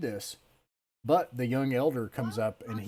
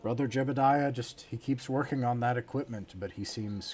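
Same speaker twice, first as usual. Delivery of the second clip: falsely pious, wide-eyed denial; feigned innocence. Acted. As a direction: play dumb like a pious hypocrite. Brother feigning ignorance to GM.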